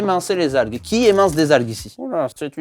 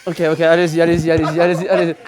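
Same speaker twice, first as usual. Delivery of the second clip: holding breath; 3 dB louder, faster than usual. Real, not acted. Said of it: "je suis en apnée".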